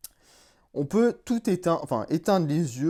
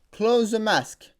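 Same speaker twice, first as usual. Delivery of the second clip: slow voice command; 4 semitones higher, much slower than usual. Real, not acted. Voice command to the helmet.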